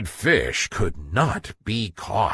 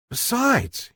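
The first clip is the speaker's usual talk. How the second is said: higher, scheming little fish voice; guppy thinking; 12 semitones higher than usual. Acted. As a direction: talk yourself into it like a guilty kid. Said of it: "he thought".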